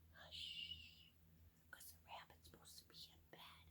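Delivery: soft whispered hush; whispering. A narrator's reading. Quiet old lady hushes the bunny, whispering. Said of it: "old lady who's whispering".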